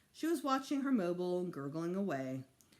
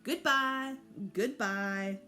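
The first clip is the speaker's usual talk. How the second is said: calling goodbye; 3 semitones higher, 5 dB louder, much slower than usual. A narrator's reading. Child calling farewell from doorway.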